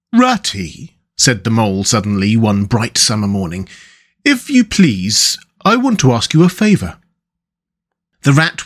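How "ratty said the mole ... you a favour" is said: mole character. Acted. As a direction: ask a favour as a polite little mole, pitched up. Mole asks a favour in story.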